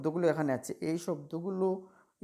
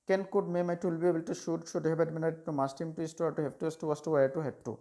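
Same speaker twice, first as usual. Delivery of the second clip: rapid-fire recitation; much slower than usual. Shown as a demonstration. Teacher demonstrating how to rattle off the list. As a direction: reel off the modal list quickly in one breath. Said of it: "এরকম করে তোমরা যখন পড়বে".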